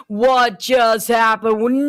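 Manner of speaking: slow, shouted disbelief, drawn out; stunned shout. Real, not acted. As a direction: yell it out in total disbelief. Caster reacts to long-range kill.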